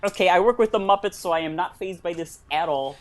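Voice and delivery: Kermit the Frog impression; earnest Muppet frog voice. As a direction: talk like the hesitant talking frog puppet.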